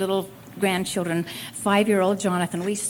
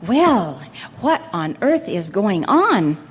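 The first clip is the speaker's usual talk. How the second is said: exasperated boss; 5 dB louder, slower than usual. Retold or imitated. Boss losing patience on phone.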